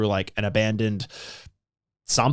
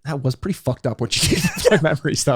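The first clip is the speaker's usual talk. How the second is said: Billy impression; faster than usual. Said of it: "and then Billy's like".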